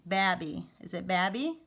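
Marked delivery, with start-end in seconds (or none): 0.0-0.7 "babby" with a short A, rhyming with cabby; short A misreading. Shown as a demonstration. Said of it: "and a long E". 1.1-1.6 "babby" with short A, rising as a question; short A misreading. Shown as a demonstration.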